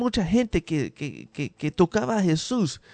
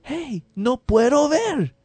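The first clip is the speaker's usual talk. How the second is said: slower, higher whiny complaint, lightly acted; mock complaint; 9 semitones higher, 4 dB louder, slower than usual. Preacher imitates what the blind man did not shout, mock whine. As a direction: play the blind man griping, hammed-up. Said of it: "el ciego no gritó".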